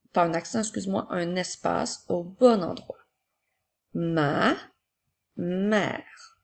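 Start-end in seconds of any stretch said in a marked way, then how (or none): 3.9-6.4 each word spaced out and clearly set apart; slow dictation. Shown as a demonstration. Teacher dictating to a child, slow and distinct. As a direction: dictate slowly to a pupil writing. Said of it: "commençons aujourd'hui par les mots ma mère".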